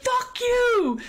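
high, loud "Fuck you"; retold curse. Justine telling off the women, high and loud. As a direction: spit it at them high.

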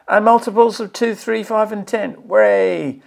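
pleased, lifted voice with a little cheer; delighted cheer. Real, not acted. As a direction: read it out like good news, ending in a hooray. Cheers at content he likes.

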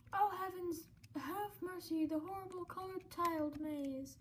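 lightly hammed-up distressed heroine; mock swooning lament over a lost love; theatrical damsel in distress, lightly voiced; melodramatic damsel.

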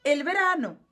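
"el verano" said the Spanish way, el not o; Spanish pronunciation of "el verano"; "verano" with a Spanish v and open final o. Shown as a demonstration. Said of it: "a pronúncia é o verão".

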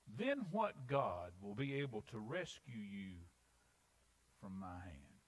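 slow, understated sarcastic challenge; a touch of sarcasm, taking your time. Acted. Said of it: "Listen to the sarcasm that comes next".

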